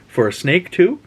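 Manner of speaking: put-on high, eager kid voice; kid bargaining. Son bargaining with his dad, high eager kid. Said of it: "And Sean asks".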